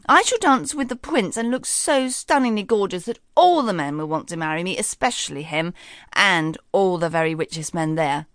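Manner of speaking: lightly voiced vain stepsister, showing off; boastful Daphne. Stepsister Daphne brags to her sister, a light boast. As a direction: preen and brag about the prince. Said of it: "boasted Daphne".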